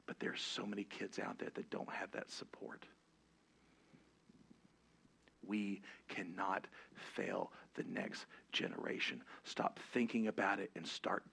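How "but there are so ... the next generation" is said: hushed plea. Real, not acted. Preacher urging the church not to fail kids, whispered. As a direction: drop to a whisper to make it land.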